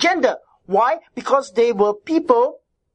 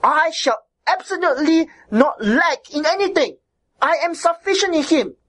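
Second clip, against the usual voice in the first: raised, forceful, every word firm; emphatic declaration; 4 semitones higher than usual. Shown as a demonstration. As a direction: declare it like a commandment. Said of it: "is written emphatically ... with the same force".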